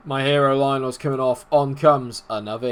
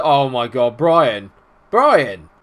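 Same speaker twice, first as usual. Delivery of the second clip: dismayed cry; 5 dB louder, much slower than usual. Real, not acted. Player gives away a penalty.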